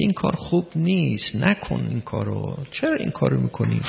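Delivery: softly voiced, kindly telling-off; gentle affectionate reproof. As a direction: correct a child lovingly, keeping it soft.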